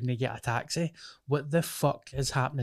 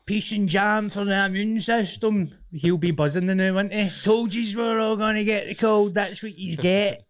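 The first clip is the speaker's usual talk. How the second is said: high, loud, worked-up mock rant; put-on high-pitched crank voice; ranting anti-masker impression; 7 semitones higher, 5 dB louder than usual. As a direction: rant like a daft conspiracy crank. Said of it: "he was basically like".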